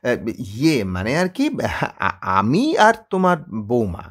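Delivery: sheepish, slow, stumbling admission; a bashful son stumbling over his words; embarrassed. Acted. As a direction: caught out, hemming and hawing. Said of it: "অপ্রতিভভাবে বলে".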